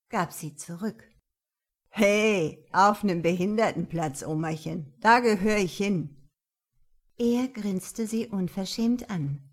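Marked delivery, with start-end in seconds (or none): 1.9-6.3 loud, brash punk; mock her with a sneer; cocky teen voice. Teen goth mocks her.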